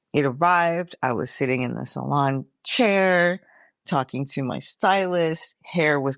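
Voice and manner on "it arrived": arrived lifted higher with glee; excited. Shown as a demonstration. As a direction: repeat it, now thrilled. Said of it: "And it arrived".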